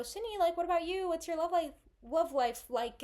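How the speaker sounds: high, eager imitation of nosy college friends; pry sweetly about her love life, hammed up; mimicking gushing friends. Friends at lunch asking Sydney about boys, high mock gush. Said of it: "and they go".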